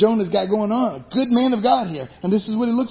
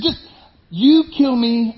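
angry demand; 5 semitones higher, 5 dB louder, slower than usual. Acted. Acting out angry Jonah.

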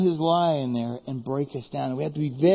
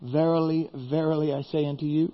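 put-on softer, solemn old-Bible intoning; mock King James Jesus; 3 semitones lower, 4 dB quieter than usual. Preacher imitates Jesus in King James style, softly solemn. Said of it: "kinda sounds like".

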